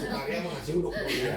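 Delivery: said through a real laugh; light laughing quip; laughing joke. Real, not acted. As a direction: chuckle through the punchline. Joking about sukaria.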